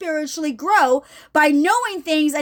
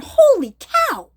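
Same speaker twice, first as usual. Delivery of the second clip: "Holy cow" said higher and louder, slowly drawn out; amazed exclamation; 8 semitones higher, 4 dB louder, slower than usual. Retold or imitated. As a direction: gasp it out in wonder, slow and lifted. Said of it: "you're going".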